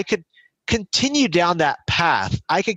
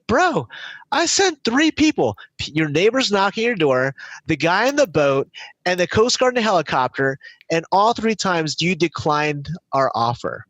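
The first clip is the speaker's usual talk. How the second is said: a light exasperated God; casual God voice; 3 semitones higher than usual. Retold or imitated. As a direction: play God as a fed-up buddy. God answers the drowned man.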